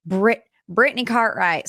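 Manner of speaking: badly faked Southern accent; clumsy, botched Southern twang; horrible Southern accent. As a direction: attempt a Southern accent and fumble it. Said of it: "horrible Southern accent".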